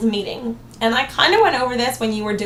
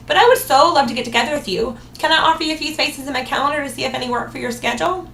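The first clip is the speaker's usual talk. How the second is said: upbeat sales pitch, mildly performed; super confident. Shown as a demonstration. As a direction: brush the objection aside with enthusiasm. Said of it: "I'm assuring her super confidently".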